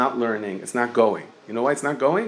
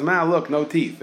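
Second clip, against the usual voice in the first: slow, higher kid's call, lightly voiced; kid calling to mom; 5 semitones higher, slower than usual. A boy on his bike calls out to his mother, slowly, in a lightly voiced kid's call. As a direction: drag it out like a proud kid just before the crash.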